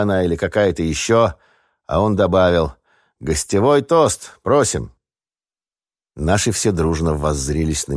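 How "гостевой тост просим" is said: higher, drawn-out call for a toast; toastmaster's call. A narrator's reading. Host calls on the guest for a toast, ceremonious. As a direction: invite the guest grandly to give a toast.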